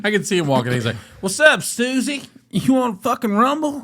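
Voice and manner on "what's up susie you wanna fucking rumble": high, mocking redneck taunt; cocky redneck impression. Redneck bar patron picking a fight with Marines, high and taunting. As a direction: put on a high-pitched troublemaker voice. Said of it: "he talked kinda like that".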